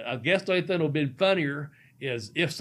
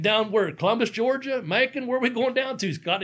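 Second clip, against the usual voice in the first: puzzled musing; 6 semitones higher than usual. Retold or imitated. His inner confused thoughts.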